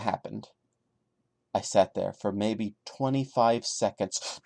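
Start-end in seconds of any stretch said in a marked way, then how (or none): 1.5-4.4 story reading. A narrator's reading. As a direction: read it straight as the narrator. Reads story line aloud.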